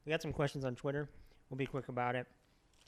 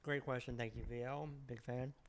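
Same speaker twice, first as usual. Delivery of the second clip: talking with mouth full; chewing while talking; 7 dB quieter than usual. Real, not acted. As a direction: speak around a mouthful of food. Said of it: "Sorry, I'm chewing".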